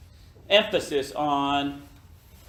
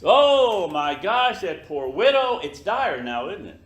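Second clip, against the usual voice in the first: mock shocked sympathy; 4 dB louder than usual. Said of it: "anybody ever know someone that died".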